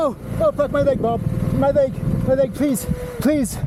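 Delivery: just broke a bone. Real, not acted. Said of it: "I think it's broken".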